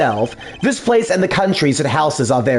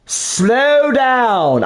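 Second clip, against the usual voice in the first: self-scolding; 4 semitones higher than usual. Real, not acted. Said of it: "I need to fucking slow down my reading".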